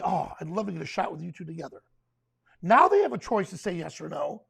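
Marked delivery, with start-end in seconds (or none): 0.0-1.8 soft, low, quick friendly request; polite. Shown as a demonstration. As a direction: ask it gently, as a courteous photographer would. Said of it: "And politely say".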